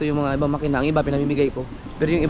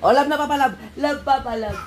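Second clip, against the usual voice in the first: laughing coax; 7 semitones higher than usual. Real, not acted. Coaxing child, laughing.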